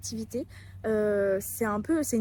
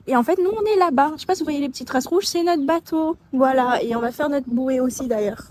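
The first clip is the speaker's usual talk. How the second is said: raised voice over the wind; shouting over wind; 3 semitones higher, 5 dB louder than usual. Real, not acted. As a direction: talk up loud against the wind. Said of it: "J'espère que vous m'entendez malgré le vent".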